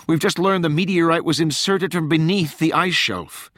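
high-pitched, pressing plea; urgent warning. A narrator's reading. Rachel urgently warns the White House.

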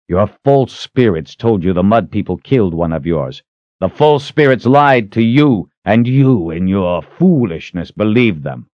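stern hero, a touch of anger; defiant challenger. Acted. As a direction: press the accusation firmly. Richard accuses the old man.

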